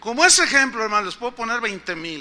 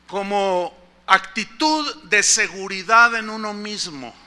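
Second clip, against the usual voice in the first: slow reading. Shown as a demonstration. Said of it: "define el triunfalismo".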